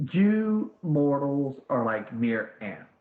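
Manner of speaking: slow, lofty divine voice looking down on mortals; a distant deity belittling an ant; scornful god. Acted. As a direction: Jade Emperor sneering at the messenger.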